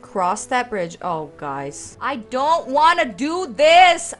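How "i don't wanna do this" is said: whiny protest. Real, not acted. Dreading the spider fight.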